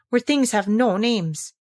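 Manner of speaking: slow musing to herself; thoughtful, to herself. Acted. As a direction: turn the idea over slowly. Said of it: "she said thoughtfully to herself".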